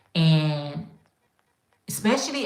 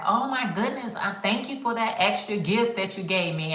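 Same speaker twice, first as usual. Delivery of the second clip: lightly voiced thankful customer, higher; gushing customer voice; 3 semitones higher than usual. A customer thanking the maker for the extra gift, gushing lightly. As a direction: gush your thanks a little higher. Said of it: "And they be like".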